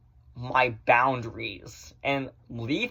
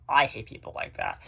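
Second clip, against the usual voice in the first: weary sigh; 3 semitones lower, 7 dB quieter than usual. Real, not acted. Annoyed after the parody.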